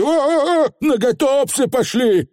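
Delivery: высокий стон коротышки; простони в страхе, высоким голосом; испуганный стон. A narrator's reading. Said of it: "простонал Туп Вулли". (испуганно стонать)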